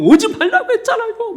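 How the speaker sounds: high, loud sobbing protest. Retold or imitated. Boy crying in his mother's arms, sobbing protest. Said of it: "그렇게 막 엉엉".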